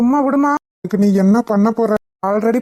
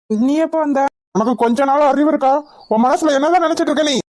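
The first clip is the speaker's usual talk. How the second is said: raised, fast, exasperated telling-off; raised voice berating a friend who barged in; exasperated scolding; 5 semitones higher than usual. Acted. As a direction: scold him for turning up like this. Friend scolds sudden visitor.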